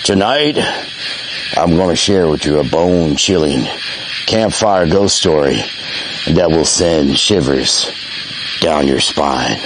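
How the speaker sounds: ghost story voice. Acted. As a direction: spin it like a spooky tale by the fire. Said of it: "Let me get my ghost telling voice".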